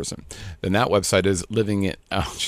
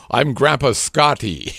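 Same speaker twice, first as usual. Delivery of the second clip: mock grandpa intro; 6 semitones higher, slower than usual. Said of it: "I could go".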